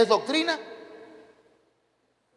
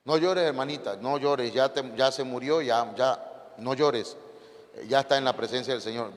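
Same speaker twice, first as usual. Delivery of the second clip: consoling; 4 semitones lower than usual. Acted. Voices someone consoling a mourner.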